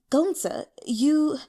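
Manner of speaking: a courtesan welcoming her next client; warm greeting. Acted. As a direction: greet the guest sweetly.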